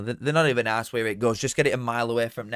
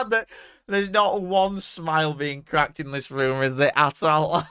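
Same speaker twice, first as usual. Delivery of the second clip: slow and drawn out, higher and louder with teasing sarcasm; mock gloomy sarcasm; 4 semitones higher, 6 dB louder, slower than usual. Real, not acted. Mocking the unsmiling fans on screen, slow teasing sarcasm. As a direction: rib the silent room with mock solemnity. Sarcastic comment on the glum room.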